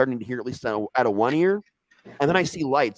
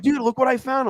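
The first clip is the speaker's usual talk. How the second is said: pitched way up, dopey surprise; high mock surprise; 4 dB louder than usual. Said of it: "He's like".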